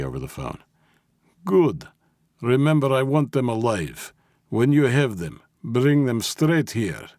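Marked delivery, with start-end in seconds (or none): 1.4-7.1 commanding boss. Acted. Boss gives orders over phone.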